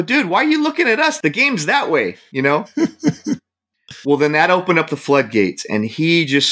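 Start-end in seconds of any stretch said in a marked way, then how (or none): 0.0-2.2 sharp high challenge at the heckler; retold confrontation. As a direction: call him out, quick and high-pitched. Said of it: "I go".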